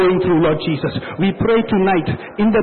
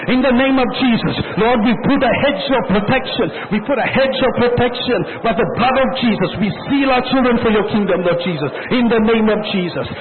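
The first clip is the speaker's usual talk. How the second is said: raised, urgent prayer voice; fervent prayer; 3 semitones higher than usual. Real, not acted. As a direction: intercede with mounting urgency.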